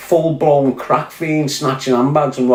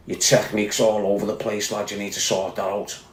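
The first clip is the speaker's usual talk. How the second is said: snooty critic quote; 7 semitones lower, 9 dB quieter than usual. Retold or imitated. Quoting Billy Moore's critical message.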